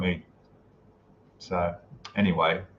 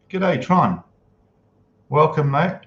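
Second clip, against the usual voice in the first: cheery greeting; 5 semitones higher, 3 dB louder, slower than usual. Real, not acted. Greeting a viewer in chat.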